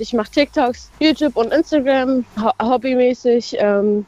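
talking while walking to school; a little breathless from walking. Real, not acted. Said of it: "ich lauf grad zufällig zur Schule".

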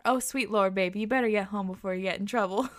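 lightly voiced Southern uncle; playful, slight mock Southern accent. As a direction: imitate a Southern uncle's mild scolding. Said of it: "in his southern accent".

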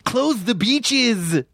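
a hint of a dog voice, slow; slow, drawn-out character line; dog playing Dreyfuss. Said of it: "That's Dreyfuss, the dog".

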